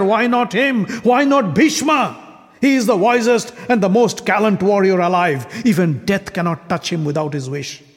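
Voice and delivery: indignant, accusing royal rant; angry king. Acted. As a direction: challenge the whole hall with scorn. Shishupala rages in assembly.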